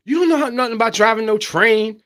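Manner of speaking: mock New York street accent. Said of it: "What accent was that?".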